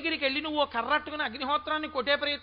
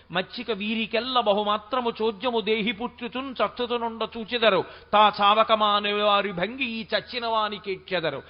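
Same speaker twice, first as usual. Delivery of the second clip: steady, sustained poetic declamation; verse recitation; 3 semitones lower than usual. Acted. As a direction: recite a Telugu classical poem in a level chant.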